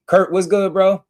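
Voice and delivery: loud, high hype greeting; excited greeting. Real, not acted. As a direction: call out to him happily. Greeting a viewer on stream.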